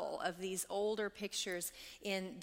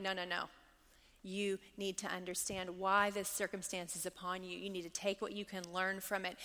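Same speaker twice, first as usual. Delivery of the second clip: gentle God voice; 2 semitones lower, 5 dB quieter than usual. Pretend.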